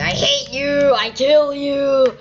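high, loud mock fury, slowing on the threat; mock angry yell. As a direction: ham up an angry fan's threat. Reading angry fan comment aloud.

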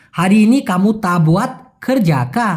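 "হারি ইনি" with a full r, words separated; clear pronunciation. Shown as a demonstration. Teacher giving the full question, clearly articulated. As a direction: sound out "কর যাকা" fully, no slurring. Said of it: "যদি আমি স্পষ্ট করে বলি".

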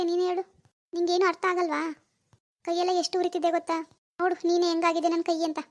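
mildly put-on plaintive pleading; lightly feigned suffering; playing for sympathy. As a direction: fake a touch of hurt, coaxing him to feel sorry. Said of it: "ಈಗೆಲ್ಲ sympathy ಕಾರ್ಡ್ನೇ use ಮಾಡೋದು".

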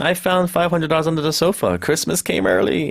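talking to oneself. Shown as a demonstration. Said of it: "혼자서 말하면은".

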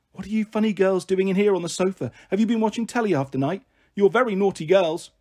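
lightly voiced mother finding her girls up; teasing mum. Mum finds daughters on the sofa, mock telling-off.

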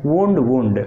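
వూండ్ with a long oo; వూండ్ said WOOND; past-form pronunciation. Shown as a demonstration. Teacher gives second and third forms, వూండ్ said WOOND. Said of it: "వూండ్ అని అంటాం".

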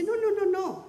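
high, insistent run of nos; imitating an author's emphatic denial. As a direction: brush the question off at once. Author denies again, quoted.

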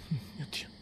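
breathless whispered oath. Real, not acted. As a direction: whisper it in awe. Whispers in scary moment. (sussurrato, senza voce)

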